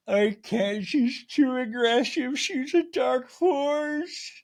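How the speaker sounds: very high, drawn-out squealed wail; hammed-up tearful complaint; Meredith's mock sobbing. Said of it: "We cut to Meredith sobbing".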